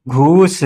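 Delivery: long drawn-out "घूस". Shown as a demonstration. Teacher showing the long ū matra, "घूस" held long. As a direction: hold the ū in "घूस". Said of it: "थोड़ा सा देर तक बोल लें".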